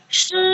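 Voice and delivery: "Shi" high, level and held; first tone. Shown as a demonstration. Teacher quizzing the class on tones, "Shi" in first tone. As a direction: hold "Shi" high without any fall. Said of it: "Nada satu".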